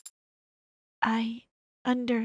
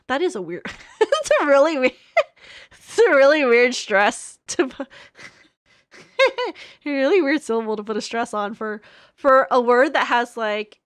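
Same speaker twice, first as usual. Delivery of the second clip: laughing; 2 semitones higher, 8 dB louder than usual. Real, not acted. Laughing at a weird word.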